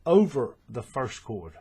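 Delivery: "over" drawn out and stressed; corrective stress. Real, not acted. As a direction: lean slowly on "over" to fix the slip. Correcting a slip, stressing the right word.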